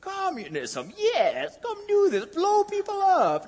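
high eerie phantom voice, slowing on the last words; haunt them with a high, drawn-out ghost call; ghostly Karl Marx. Pretend. Preacher mocking fears, as Karl Marx's phantom ghost, high and eerie. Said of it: "The phantom ghost of Karl Marx is like".

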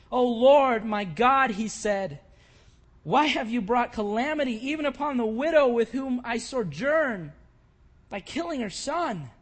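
loud, anguished plea to the Lord; crying out to God. Retold or imitated. Elijah pleading with God over the widow's son, loud and anguished. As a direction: lift the voice in a desperate prayer. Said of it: "And he cried out to the Lord".

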